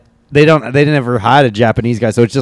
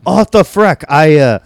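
put-on Asian accent; 3 semitones higher than usual. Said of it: "doing a really thick Asian accent".

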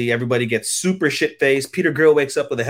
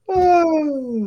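shrieking laugh, way up high; high cackling laugh; 3 dB louder than usual. Real, not acted. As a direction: burst into a squealing cackle. Laughing hard at own joke.

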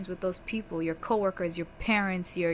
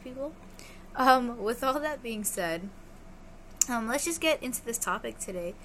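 through a face mask; 4 semitones higher than usual. Real, not acted. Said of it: "I have a face mask on".

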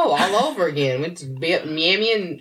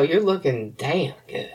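slow, lightly voiced smooth flirt; a hint of a smooth-talking man; slow flirty line; slower than usual. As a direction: drawl it like a guy trying his luck. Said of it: "said it just like that".

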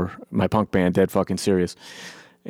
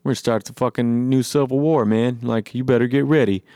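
smug nonchalant; 3 semitones higher than usual. Retold or imitated. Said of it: "acting real, like, uh, nonchalant".

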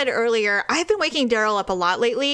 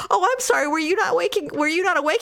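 mock innocent apology; 6 semitones higher, faster than usual. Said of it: "I'm like".

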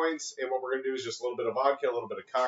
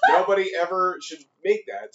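raised, disgusted repeat; louder disgusted; 6 semitones higher, 6 dB louder than usual. Retold or imitated. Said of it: "I'm like".

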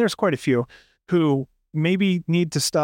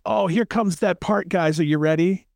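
mock hammy actor; 5 semitones higher than usual. Mocking actors addressing audience.

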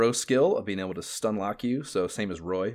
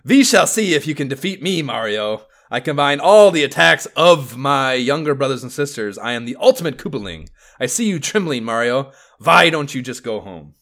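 put-on higher, loud villain boast in a German accent; 5 semitones higher, 8 dB louder than usual. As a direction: taunt Mario with a hammy German accent. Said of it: "a German accent".

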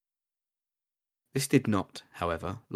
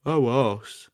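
higher, louder goblin grumble; 5 semitones higher, 5 dB louder than usual. Acted. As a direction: groan it as a dismayed goblin. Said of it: "said Prig".

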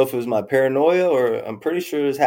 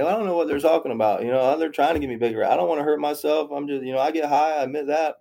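breezy, higher-pitched self-defence; retold happy-go-lucky; 5 semitones higher than usual. Patient shrugging off talk of Baker Act, happy-go-lucky. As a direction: brush it off in a light, raised voice. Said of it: "But I'm happy-go-lucky".

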